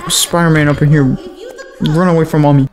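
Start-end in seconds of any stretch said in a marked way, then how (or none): 1.8-2.7 laughing while running off. Real, not acted. Fleeing, laughing.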